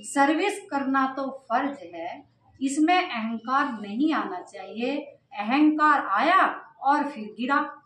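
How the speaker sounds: slow, measured reading aloud; scripture reading. Acted. Teacher reads Baba's words to the class, measured scripture reading. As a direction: read out each phrase deliberately.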